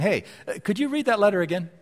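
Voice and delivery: pleading, building to a loud high urging; imagined believer begging Paul's letter be reread; eager congregation member. Retold or imitated. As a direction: beg to hear the letter read again, rising to insistent. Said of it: "I think they'd be asking".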